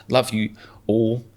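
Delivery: slow, stiff robotic delivery. Pretend. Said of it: "That sounds like a robot".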